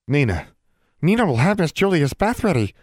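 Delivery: high squeaky house elf voice. Acted. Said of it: "said the elf".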